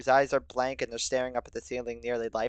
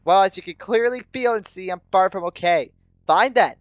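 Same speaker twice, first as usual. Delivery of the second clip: higher, loud, heated retort; angry; 6 semitones higher, 9 dB louder than usual. A narrator's reading. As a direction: argue back with exasperation. Quarrel, anger mounting.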